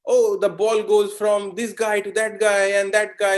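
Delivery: lightly voiced excited football commentary; football commentator. Teacher mimics a football commentator, lightly excited. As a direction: rattle it off like a match caller. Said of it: "you have to say".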